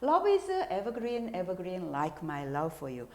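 reading the lyric very slowly; slow, careful English reading. Shown as a demonstration. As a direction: draw each word out for learners. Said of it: "자막을 보겠습니다".

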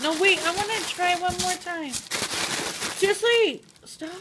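high, laughing plea; breaking up laughing. Real, not acted. Laughing, begging him to stop.

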